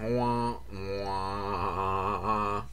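low, soft, drawn-out wah-wah; sad-trombone wah-wah. Acted. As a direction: mimic a sad trombone quietly. Mocking the film with a sound.

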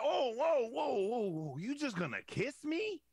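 incredulous retort. Retold or imitated. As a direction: act out stopping someone in shocked protest. Acted shocked reaction to girlfriend's kiss.

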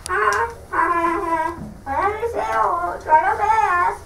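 mocking pig. Pig mocks the wolf.

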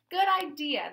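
high, loud burst of approval; eager exclamation. A narrator's reading. Old knight approving a pupil's request, eagerly exclaiming. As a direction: seize on the idea at full voice.

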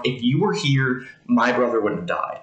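blunt retold plea, stress on were; lightly voiced Mary, straight to the point; mild blunt accusation; direct reproach. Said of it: "Mary's a little bit more direct".

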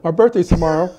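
ordinary talk

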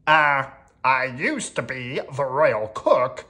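hesitant, drawn-out character voice; a hint of a sheepish servant; apologetic royal cook.

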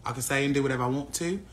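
low mock-British accent. American streamer refusing to drop it, put-on British accent. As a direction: defiantly keep up the fake British accent. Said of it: "chill out with that accent".

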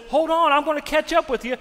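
high, loud shout to a runner; acted-out frantic call; calling after. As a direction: yell to make him wait. Servant calls after the runner.

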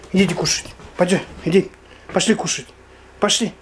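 high coaxing call; calling dogs to dinner. Real, not acted. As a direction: lure them in with food.

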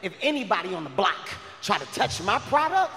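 threatening dealer. Retold or imitated. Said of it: "I said".

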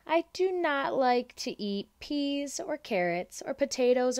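a hint of a defiant little girl; stubborn child. Lola refuses her dinner with mild stubbornness. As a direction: dig in and refuse every food.

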